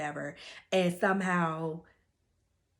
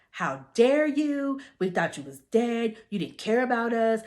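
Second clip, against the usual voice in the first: retold meltdown; 4 semitones higher, 4 dB louder than usual. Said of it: "having a full on meltdown".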